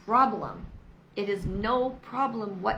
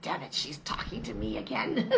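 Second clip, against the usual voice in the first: whispered grumble as husband; imitating husband. Wife voicing her husband's annoyance, whispered grumble. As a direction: mutter it under your breath like him. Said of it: "Husband's like".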